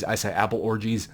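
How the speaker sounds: deadpan "apple orgies" for apologies; joke mispronunciation. Shown as a demonstration. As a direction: say "apple orgies" as two words, apple then orgies, in place of apologies. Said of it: "Instead of saying apologies".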